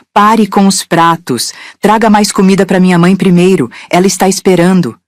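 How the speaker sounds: shouting. Acted. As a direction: bark the order across the kitchen. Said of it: "e gritou".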